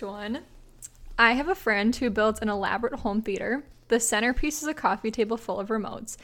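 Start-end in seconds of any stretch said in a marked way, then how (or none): 1.2-6.2 measured, even read-aloud voice; story narration. A narrator's reading. Host reading a listener's prank story to co-host, measured narration. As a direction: read it out like a short anecdote.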